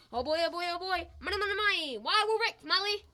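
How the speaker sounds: high, loud, rising glee; giddy excitement. Acted. Husband telling wife they are rich, giddy excitement. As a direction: whoop it up like a sudden winner. Gloating over found money.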